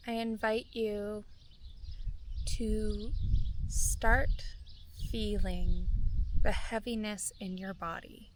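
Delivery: calm, measured meditation voice with long pauses; guided meditation. Real, not acted. Guide inviting listeners to feel gratitude for their bodies, calm meditation voice. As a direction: guide listeners gently inward, phrase by unhurried phrase.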